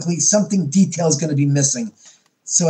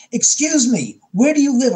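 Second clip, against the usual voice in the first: startled; 8 semitones higher than usual. Retold or imitated.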